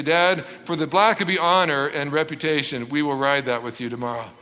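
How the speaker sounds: solemn resignation. Acted. Sons solemnly give in.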